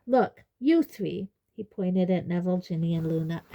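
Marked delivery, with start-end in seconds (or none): 0.0-1.3 loud, slow, higher-pitched insistence; angry. A narrator's reading. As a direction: lay down the law crossly. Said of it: "said Harry angrily".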